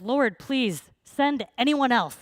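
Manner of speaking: slow, loud, high-pitched mock pleading; drawn-out desperate plea, acted; desperate Moses. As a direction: beg to be let off, hammed-up. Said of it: "desperate Moses trying to get out of this".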